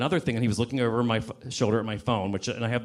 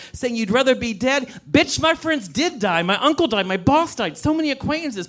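higher, impassioned telling-off; heated rant; 5 semitones higher than usual. Real, not acted. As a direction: let him have it, pitch climbing. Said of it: "That was a wonderful rant".

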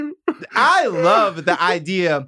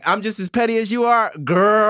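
petty rapper impression. Retold or imitated. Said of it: "Drake being like".

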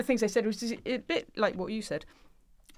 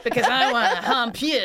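blunt and direct; 2 semitones higher, 5 dB louder than usual. Acted. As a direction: imitate a very direct reality-show flirt. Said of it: "Americans are really, really direct".

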